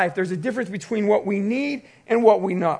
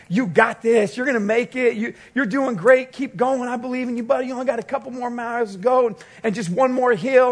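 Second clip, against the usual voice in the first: peppy cheerleader; 3 semitones higher than usual. Retold or imitated. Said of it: "he's just all peppy".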